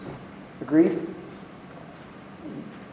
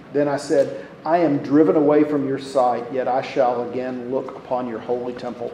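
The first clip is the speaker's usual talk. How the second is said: subdued, evenly intoned prayer reading; scripture reading; 3 semitones lower than usual. Acted. Reads Jonah's prayer aloud.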